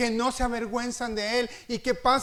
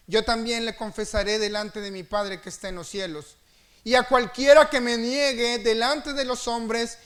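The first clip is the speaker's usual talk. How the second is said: forceful scripture reading; 4 dB louder than usual. Acted.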